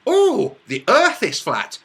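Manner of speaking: loud, high "oh" dropping into mock conviction; mock realisation. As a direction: parody a suddenly convinced listener. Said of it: "you would go".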